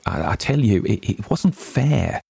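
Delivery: desperate plea. A narrator's reading. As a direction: stammer it out desperate and pleading. Tessie pleads against the draw.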